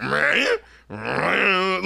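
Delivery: mock siren bleat from the beat; drawn-out alarm-like noise; imitated alarm. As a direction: imitate alarming background music. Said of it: "the alarming music, you hear those, like".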